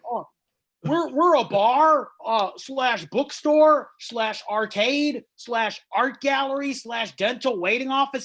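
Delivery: high, loud snooty hipster voice, stammering; snobby bar owner. Retold or imitated. Comedian mocks a pretentious bar owner, snooty hipster voice. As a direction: put on a pretentious bartender. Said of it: "places that were like".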